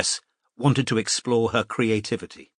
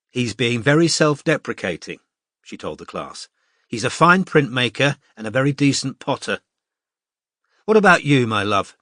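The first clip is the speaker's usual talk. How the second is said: lightly voiced cheerful teacher. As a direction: address the class like a confident tutor. Mariam praises Brendan, asks Robin.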